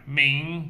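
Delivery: "明" rising second tone, míng. Shown as a demonstration. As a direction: slide "明" upward. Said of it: "going up".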